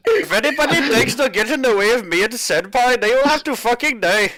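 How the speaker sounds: put-on Indian accent for a mock threat. Tech support girl threatening rivals for Senpai, Indian accent. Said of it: "the Indian girl who does".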